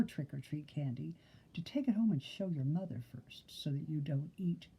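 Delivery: soft confiding whisper. Real, not acted. Secret tip to kids.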